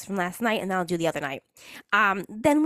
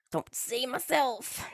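whispered aside; 6 dB quieter, slower than usual. Real, not acted.

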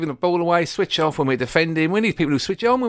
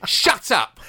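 higher, drawn-out hammed-up insult; mock telling-off; 5 semitones higher, slower than usual. Acting out insulting a rival coach to his face, mock scolding. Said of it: "and you go".

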